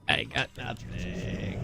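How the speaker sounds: deflated. Real, not acted. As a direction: let it sink away in defeat. Repeated dejected phrase.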